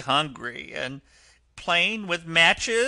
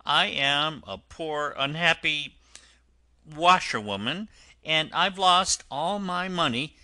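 tearful washerwoman; 8 semitones higher, 6 dB louder than usual. Acted. Toad disguised, pleading with the driver, high and tearful. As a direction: wail your hard luck like a poor washerwoman. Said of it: "crying afresh".

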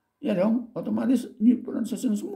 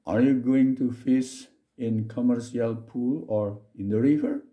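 slow dialogue reading; slower than usual. Shown as a demonstration.

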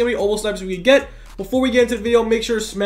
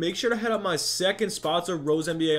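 sponsor ad read; 6 dB quieter than usual. Acted. YouTuber plugging his second sponsor to viewers, ad read.

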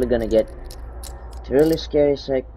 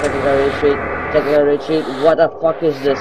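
being chased; 2 semitones higher, 3 dB louder, faster than usual. Real, not acted. Fleeing the monster, panicked.

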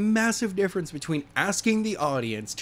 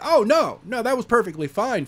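mock dismissal; 6 semitones higher than usual. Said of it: "And they're like".

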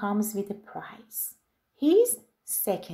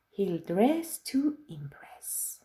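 whispering; 5 dB quieter than usual. Acted. Genie shares his plan.

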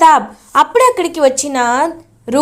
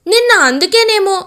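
mocking laugh; 6 semitones higher, 3 dB louder than usual. Aunt mocks Roopa.

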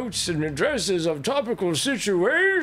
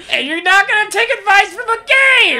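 high, loud frog puppet voice; Kermit the Frog voice; 10 dB louder than usual. Pretend. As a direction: squawk it like Kermit. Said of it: "Doing your best Kermit the Frog impression".

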